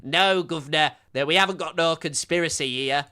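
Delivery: a hint of a meek British accent; meek British denial in a British accent; mock British accent. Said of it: "the soy British man is like".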